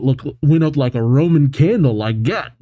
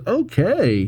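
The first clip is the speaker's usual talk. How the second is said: meek high lady voice; 8 semitones higher, 3 dB quieter than usual. A narrator's reading.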